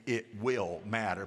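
slow line with "will" stretched; slow, weighted "will"; stress on "will". Shown as a demonstration. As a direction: lean on "will" for the congregation to repeat. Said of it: "Put will emphasis".

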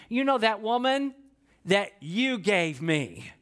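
sulky drawn-out blame, slowing on the end; whiny blaming Adam. Retold or imitated. Adam blaming God for the woman, sulky slowed whine. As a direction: whine it like a man passing the buck. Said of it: "this is how he says it".

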